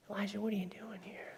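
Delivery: very soft, unvoiced whisper. God speaks to Elijah in the cave, hushed whisper. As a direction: whisper it gently into the silence. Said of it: "God whispers to him".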